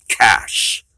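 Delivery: breathy whispered name; hushed, breathy reveal. Acted. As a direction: whisper it like a secret.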